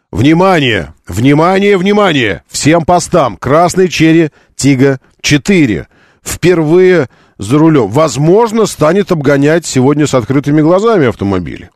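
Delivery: hammed-up all-posts announcement; police radio. Mock police alert to all posts.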